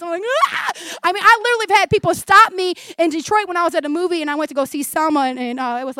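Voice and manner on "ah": exaggerated bawling cry; comic burst of sobbing; mock crying wail. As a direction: wail like a movie weeper. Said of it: "I'm crying".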